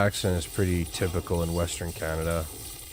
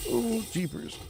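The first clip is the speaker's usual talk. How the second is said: surprised; 5 dB quieter than usual. Real, not acted. Reacts to Newfie accent.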